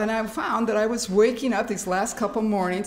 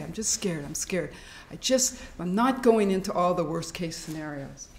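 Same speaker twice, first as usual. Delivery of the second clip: soft, low self-soothing; quiet calming self-talk; calm reassurance; 4 semitones lower, 3 dB quieter than usual. Shown as a demonstration. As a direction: settle yourself down quietly. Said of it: "we just say or think".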